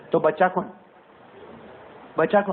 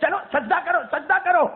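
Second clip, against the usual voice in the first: divine command; 11 semitones higher than usual. Acted. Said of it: "اور اللہ کہے گا".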